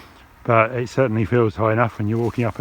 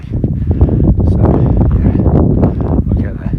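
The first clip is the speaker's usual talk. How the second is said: panting, out of breath on a climb; breathless, hauling up a hill; 9 dB louder, much slower than usual. Real, not acted. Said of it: "I'm a bit out of breath now".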